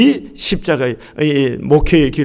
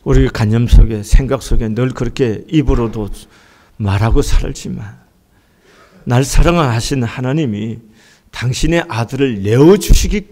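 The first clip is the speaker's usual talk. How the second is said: closing prayer; 6 semitones lower than usual. Acted. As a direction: lead the church gently into prayer. (낮고 조용한 기도 목소리)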